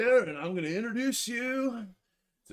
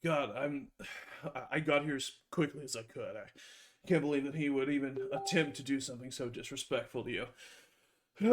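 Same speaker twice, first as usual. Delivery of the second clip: softer, lower sincere confiding; hushed earnest plea; 6 semitones lower, 8 dB quieter than usual. Acted. Rogue sweet-talking Helena after the fight, hushed. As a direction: lay it on thick, softly. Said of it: "I look at Helena and I just say".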